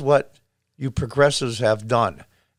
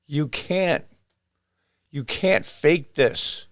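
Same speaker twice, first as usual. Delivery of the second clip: normal talking voice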